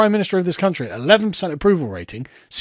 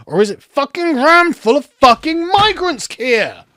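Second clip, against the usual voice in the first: angry outburst; 7 semitones higher than usual. Real, not acted. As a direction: explode at Keir. Ranting at Keir about the NHS.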